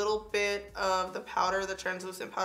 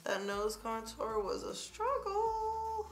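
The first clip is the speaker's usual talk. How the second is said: whiny voice; 4 dB quieter, slower than usual. Pretend. High slow complaining voice.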